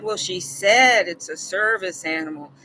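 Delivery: mildly doubtful, lightly mocking; a hint of disbelief in the quote; understated skeptical woman. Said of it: "like she was skeptical".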